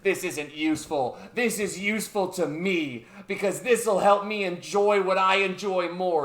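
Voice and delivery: mildly indignant mock outburst; retold snapping. Presenter defending his game to scientist, mock indignation. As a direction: act out an offended comeback, building slightly. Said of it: "And he snaps".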